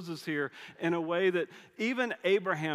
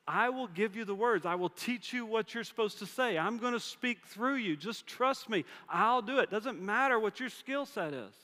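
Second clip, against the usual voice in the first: higher pitch throughout, earnest; God's rebuke; 7 semitones higher than usual. Retold or imitated. God reminding Moses who made his mouth, higher and earnest. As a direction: press the point, lifted and insistent.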